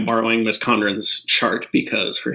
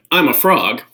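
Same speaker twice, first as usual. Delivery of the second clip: put-on reading to children. Shown as a demonstration. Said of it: "I'm gonna read".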